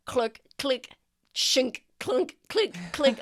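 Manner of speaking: crisp spoken clicks and clunks; imitated lock clicks. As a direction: voice the locks springing open one by one. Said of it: "you hear just, like".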